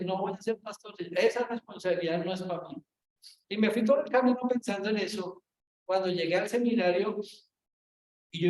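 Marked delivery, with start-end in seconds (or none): 0.0-2.8 put-on scolded child. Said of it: "como niño regañado".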